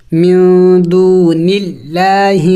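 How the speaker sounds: اللہ said with a thin, light L after zer; slow, with اللہ kept light and not full; thin Allah. Shown as a demonstration. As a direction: recite دون اللہ with a thin lām. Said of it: "لفظ اللہ کو باریک کر کے پڑھا جاتا ہے".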